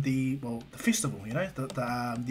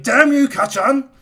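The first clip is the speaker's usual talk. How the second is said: long, high, drawn-out yell; loud, slow cry of frustration; exasperated shout; 10 semitones higher, 12 dB louder, slower than usual. Retold or imitated. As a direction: curse your friend at full volume. Izuku curses Bakugo for embarrassing him.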